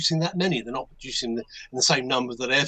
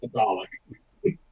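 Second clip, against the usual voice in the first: slow, lower, drawn-out rising echo; amused disbelief; 5 semitones lower, much slower than usual. Real, not acted. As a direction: stretch it out, a slow amused question. Echoes the word in amusement.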